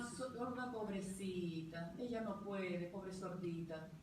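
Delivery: mock pity for a poor deaf girl.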